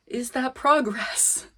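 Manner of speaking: ordinary delivery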